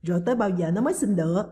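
odd scoffing laugh. Acted. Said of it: "Bà Vinh cười lạ".

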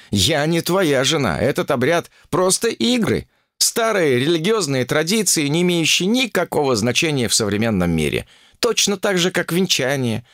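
a woman stubbornly refusing to be a wife; indignant Olga. Acted. Ольга спорит с царём обезьян. (Ольга возмущённо спорит с мужем, голос выше)

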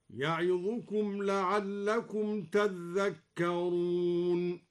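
"تذكرون" with a held double dh, tadhdhakkarun; slow chant, doubled dh in "تذكرون"; doubled dhal. Shown as a demonstration. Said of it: "وشدد الذال من تذكرون".

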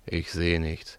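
whispered reply; hushed whisper in the dark. Acted. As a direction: barely breathe the words. Sneaking up at night, whispering.

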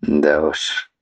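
put-on low, tired old voice; lightly voiced weary old serpent. Serpent's voice again.

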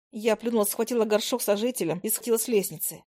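ordinary delivery, nothing marked

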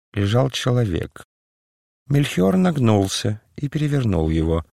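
usual speaking voice

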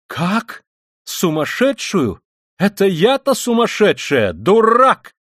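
slow indignant build to a high, loud cry; outraged shriek. A narrator's reading. Katerina Ivanovna called mad by Luzhin, outraged shrieking. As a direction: throw the insult back, climbing to a shriek. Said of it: "взвизгнула Катерина Ивановна".

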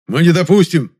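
loud indignant exclamation; exclaiming. A narrator's reading. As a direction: shout your protest. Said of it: "воскликнул небритый мужичок".

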